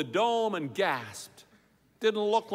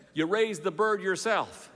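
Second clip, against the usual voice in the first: YOU RAISED THE BIRD YOURSELF said as a mild query; understated question landing on YOURSELF. A narrator's reading. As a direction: ask YOURSELF with restrained doubt. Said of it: "It was a question".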